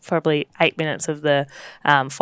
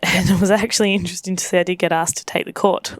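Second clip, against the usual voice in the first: laughing; 2 semitones higher than usual. Real, not acted. Laughing while telling news.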